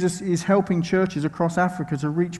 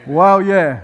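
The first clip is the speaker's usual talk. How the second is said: loud, put-on low-pitched cheer; attempted low voice; 7 dB louder than usual. Shown as a demonstration. Preacher following the partner's advice to go low, mock deep voice. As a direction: push out a mock deep exclamation. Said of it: "So I'll try to go low".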